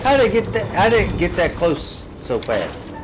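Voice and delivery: startled high-pitched disbelief; alarmed. Real, not acted. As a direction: react to the monster suddenly being close. Monster suddenly closes in.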